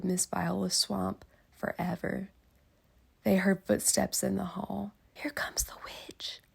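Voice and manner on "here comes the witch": breathy hush; whispered. Acted. Kids hearing footsteps in the hall, frightened whisper. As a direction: whisper it in dread. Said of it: "they whispered".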